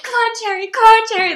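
high and loud nagging mimicry; mimicking a grating TV character, high mock call; mocking her voice. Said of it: "The way she's saying cherry".

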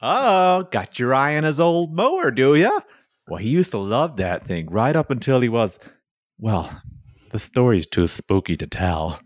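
put-on high, chirpy old widow selling; cheery old lady with a spooky hush; sweet old widow. Widow selling haunted mower.

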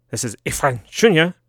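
imitating a German teacher's accent; mock German teacher pronunciation; playful German-accented read; German teacher imitation. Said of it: "That's how my German teacher would say it".

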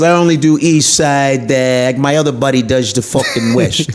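lightly put-on New York Italian accent; a hint of Italian-American wiseguy. Comic voicing a rapist who sticks to his side, light Italian-American accent. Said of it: "I don't know why I'm Italian".

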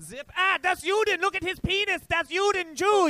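put-on very high German-accented panic; mock freak-out. German woman freaking out at the comic, shrill mock panic. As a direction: shriek it in hammed-up German horror.

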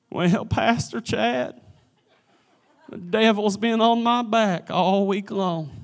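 soft, slow mock complaining; whiny Christian. Mocking a whiny churchgoer to the pastor in a soft whine. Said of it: "Christians are whiny folk".

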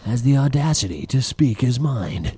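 slow, dramatic trailer announcer; movie trailer voice. Pretend. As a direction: intone it like a big movie trailer. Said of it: "I think that's pretty good".

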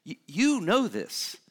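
"You, you know this" drawn out, pointing at each listener; slow personal emphasis. Acted. Preacher pressing the congregation personally, slow. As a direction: lean in on "you", slowly. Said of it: "he's making it very personal".

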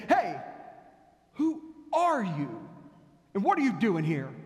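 guard shouting down. Retold or imitated. Guard yelling down at the rabbi from the watchtower, loud. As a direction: yell down from the wall at a stranger. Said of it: "shouted down to them".

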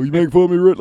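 loud, high confrontational impression; mock-angry Southern boy challenge; Bubby Brister. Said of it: "Bobby was right there".

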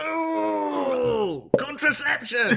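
high crying exclamation, slow; mock-scandalised cry of the pope; high shriek of dismay; shocked pope. Voicing the pope reacting.

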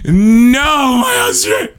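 high, drawn-out mock wail; squealing fake grief; mock despair. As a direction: lament it with hammed-up anguish. Mock despair over lost accent.

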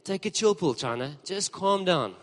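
light South African casual; South African slang. Retold or imitated. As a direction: tell him to chill, South African style. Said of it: "in the South African way".

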